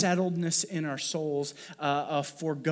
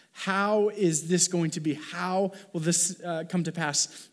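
higher, mildly worried questioning; a touch of acted worry, pitched up; fear and worry; 3 semitones higher, 3 dB louder than usual. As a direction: lightly act out a bewildered, worried question. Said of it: "the fear and the worry".

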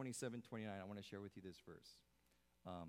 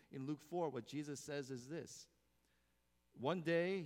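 usual speaking voice

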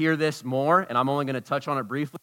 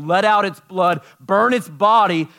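building intensity; 4 semitones higher, 7 dB louder than usual. Real, not acted. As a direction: paint the gore with force. Vivid sacrifice picture.

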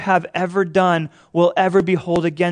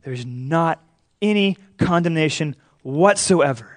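"not", "any" and "whatsoever" set apart by pauses; double emphasis. Retold or imitated. Preacher restating Paul's double emphasis, measured stress on "any" and "whatsoever". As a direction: weigh out "not any condemnation whatsoever" word by word. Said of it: "He's double emphasizing it".

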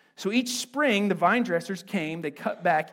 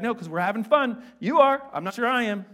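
hammed-up banter; 4 semitones higher, 5 dB louder than usual. God and believer joke.

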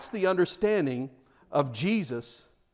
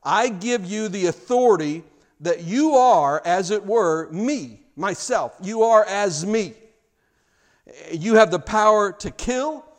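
commanding emperor; 3 semitones higher, 5 dB louder than usual. Retold or imitated. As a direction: hand over power like Caesar to his general. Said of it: "into the hand of a general and he says".

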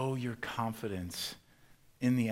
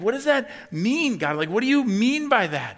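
frustrated plea; 12 semitones higher, 11 dB louder than usual. Pretend. Frustrated believer pleading with God, high and loud. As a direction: demand an answer from God.

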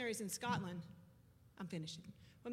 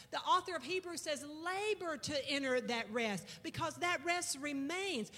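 preaching. Acted. Pastor preaching rest to the congregation, building fervour. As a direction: press each phrase home like a sermon.

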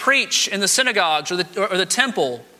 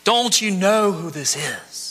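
high, stinging "You fool!", then a slower question; sharp rebuke; 4 semitones higher, slower than usual. Retold or imitated. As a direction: snap at the other thief, then press him slowly. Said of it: "looks at the other thief and says".

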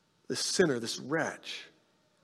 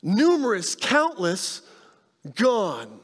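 each word stressed, higher, falling on gone; emphatic list; 3 semitones higher, much slower than usual. Retold or imitated. Jesus stressing how many sins are forgiven, emphatic list. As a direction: hammer each word home. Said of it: "he says".

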